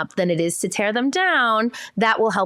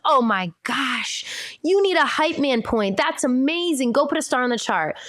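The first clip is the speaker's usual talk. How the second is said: acted parental enthusiasm, pitched up; gushing praise; 6 semitones higher than usual. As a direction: hype the kid up with gushing approval. Parent hyping child, acted praise.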